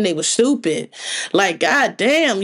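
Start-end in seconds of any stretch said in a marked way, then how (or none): 1.3-2.4 slow, drawn-out god damn; exasperated sigh. Real, not acted. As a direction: let it drag out in disbelief. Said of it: "y'all just so dumb".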